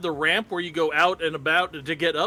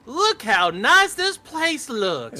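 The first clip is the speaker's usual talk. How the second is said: put-on goofy, dopey southern accent, high and swooping; 8 semitones higher, 4 dB louder than usual. Recalling walking into a lobby, pointing it out in a dumbass southern voice. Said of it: "in that dumbass southern voice".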